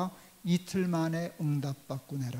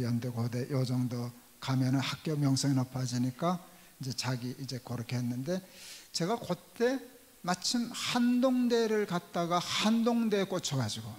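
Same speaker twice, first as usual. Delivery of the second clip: ordinary delivery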